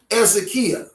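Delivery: Ezekiah as ez-eh-KEE-uh; original-style pronunciation. Shown as a demonstration. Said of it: "commonly called".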